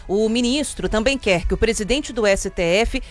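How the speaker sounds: brisk, even headline delivery over music; news headline read. Acted. Radio host reading the day's headlines to listeners, crisp news read.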